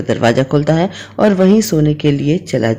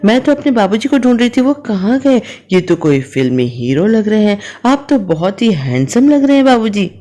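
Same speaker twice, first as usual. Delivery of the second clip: higher, fast, teasing with a laugh in the voice; higher pitched amused compliments; 6 semitones higher than usual. A narrator's reading. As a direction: tease the father-in-law playfully. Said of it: "उसे बहुत हंसी आती है".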